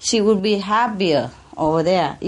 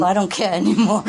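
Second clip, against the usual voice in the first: laughing retold yell. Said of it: "I was screaming at him".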